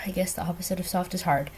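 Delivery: quick whispered self-correction; under your breath, fast; whispered aside. Real, not acted. Correcting her own word choice to viewers, quick whisper. Correcting herself mid-explanation.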